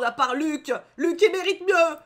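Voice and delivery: loud, rising, drawn-out cry; passionate championing. Real, not acted. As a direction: proclaim your favourite with hammed-up fervour. Champions her favourite character. (plaidoyer passionné, de plus en plus fort)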